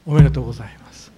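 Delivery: a sudden loud, fast new year greeting. Shown as a demonstration. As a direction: burst out with the greeting. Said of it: "わざと大きな声で言いませんでした".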